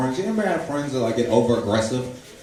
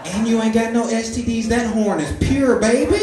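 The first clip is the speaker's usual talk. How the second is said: much higher and louder, bragging; hyped self-praise; 11 semitones higher, 3 dB louder than usual. Retold or imitated. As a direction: crow like a proud unicorn.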